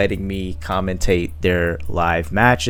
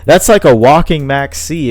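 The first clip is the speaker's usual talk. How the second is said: jumps way up in pitch, slowing to savour it; real excitement at a smart move; genuinely impressed, the voice leaping high; excited; 5 semitones higher than usual. Real, not acted. Commentator reacts to clever play.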